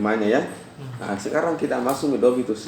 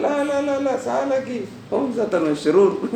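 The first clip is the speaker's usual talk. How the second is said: high, loud mock insistence; retold stubborn objection; 12 semitones higher, 5 dB louder than usual. Speaker retelling his reply to a friend's correction, mock-insistent. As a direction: replay a stubborn "no, no" high-pitched. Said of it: "Nanti saya bilang".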